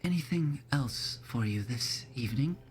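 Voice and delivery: put-on polite old innkeeper, unhurried. DM voicing the innkeeper.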